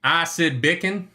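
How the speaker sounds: Acid Bacon drawled slowly in a southern accent. Shown as a demonstration. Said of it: "how you say Asid Bakun in a southern accent".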